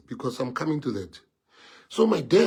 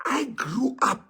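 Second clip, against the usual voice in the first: choking up; 10 semitones higher, slower than usual. Real, not acted. Telling the crowd his childhood, voice breaking. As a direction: voice catching, high and crying. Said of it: "I'm even getting emotional".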